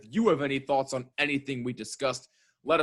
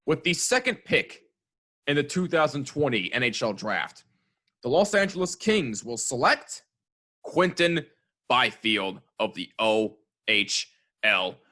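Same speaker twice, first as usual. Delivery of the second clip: draft announcer. Acted. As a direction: announce the pick like the commissioner. Mock draft pick announcement.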